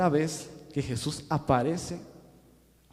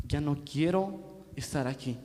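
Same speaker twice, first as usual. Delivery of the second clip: soft, defeated Peter; broken whisper-soft; 8 dB quieter than usual. Retold or imitated. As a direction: say it like giving up. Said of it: "estaba roto por dentro".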